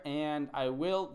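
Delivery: slow, leaning on will; stress on will. Shown as a demonstration. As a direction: hold will a beat longer. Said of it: "That's a different sp".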